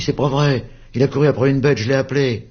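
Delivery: put-on high, loud indignant kid; childish protest. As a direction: deny it hotly. Dispute d'enfants. (protestation d'enfant aiguë)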